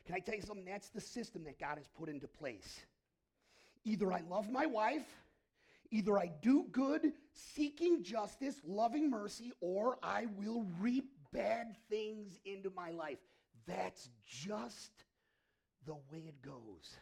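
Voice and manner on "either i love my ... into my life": preaching at full force. Real, not acted. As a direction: drive each clause home. Preaching to congregation.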